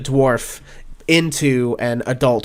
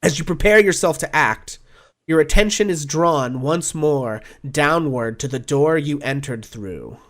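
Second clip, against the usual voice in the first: dramatic scene setting; 2 semitones higher than usual. Acted. The game master sets the battle scene for the players, urgent. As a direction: paint the battle with rising urgency.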